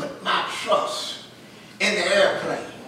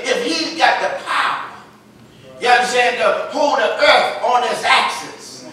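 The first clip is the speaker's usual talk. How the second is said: building preacher cry. Real, not acted. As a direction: lift it toward the shout.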